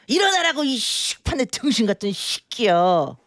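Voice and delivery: piano teacher turned cursing grandma; foul-mouthed granny. Pretend. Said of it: "섞어서 한번 해볼게요". (욕쟁이 할머니 모닝콜)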